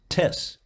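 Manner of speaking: "tes" as one word, T stuck on the front; wrongly linked T. Shown as a demonstration. Coach mocking the mistake, "tes" with attached T. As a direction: make "tes" a word by itself. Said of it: "tes is not a German word".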